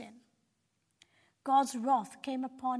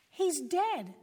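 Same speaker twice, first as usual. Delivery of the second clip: louder, higher cry of dismay; 5 semitones higher, 4 dB louder than usual. A narrator's reading. Villagers finding the shepherd, crying out in dismay. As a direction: call out the bad news in shock. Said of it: "they cried".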